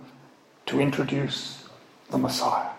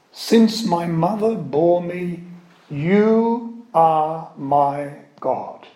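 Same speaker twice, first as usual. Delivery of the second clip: slow psalm reading; 3 semitones higher, much slower than usual. Shown as a demonstration. Teacher reading the psalm verse to the class, slow and solemn. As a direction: read Since my mother bore me slowly, as scripture. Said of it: "it reads".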